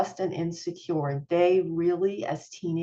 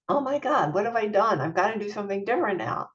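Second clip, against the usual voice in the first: higher, rushed alarm as a parent caught out; imitating panic; 3 semitones higher, faster than usual. A parent in a difficult moment, mock panicked alarm. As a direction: blurt it like a parent who just realised a mistake.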